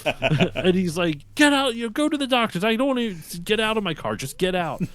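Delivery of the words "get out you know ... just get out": high-pitched, loud mock outrage; mad dad. Dad kicking his son out of the car, mock furious. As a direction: throw him out in hammed-up fury. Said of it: "he's so mad".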